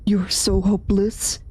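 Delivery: cruel whisper. Acted. Inner voice taunting Sayori.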